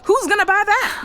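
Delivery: a scoffing laugh at the silly price; laughing disbelief. Acted. Scoffing at the generator price to a friend, laughing.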